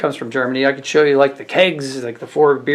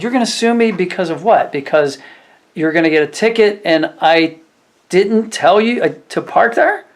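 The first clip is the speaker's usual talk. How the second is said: sarcastic retort; 4 semitones higher than usual. Retold or imitated. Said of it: "I said".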